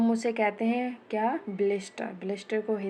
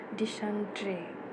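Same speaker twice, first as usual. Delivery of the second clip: dysentery stretched out very slowly, syllable by syllable; slow, drawn-out word; much slower than usual. Shown as a demonstration. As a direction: draw out dysentery slowly for students to copy. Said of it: "क्या लिखने वाली हूँ अब मैं?". (dysentery को बहुत धीरे खींचकर बोलना)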